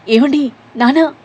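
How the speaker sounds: high, loud, slow cry of alarm; alarmed shout. A narrator's reading. Wife and daughter shout to fallen father, alarmed. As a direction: cry out to the collapsed man. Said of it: "ఇద్దరూ గట్టిగా అరుస్తూ".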